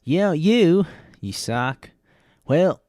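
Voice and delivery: high, loud Southern accent; hammed-up Southern accent. Shown as a demonstration. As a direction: heckle in a put-on Southern accent. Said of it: "the southern accent".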